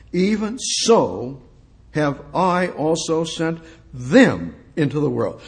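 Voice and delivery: lightly solemn Bible reading; scripture reading. Acted.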